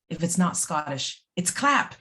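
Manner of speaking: a light put-on Scottish accent, rising on the last word; lightly voiced Scottish shopkeeper greeting customers; a quick hint of a Scottish accent for the joke; Stuart Rankin Scottish accent. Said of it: "That's my Scottish accent for the day".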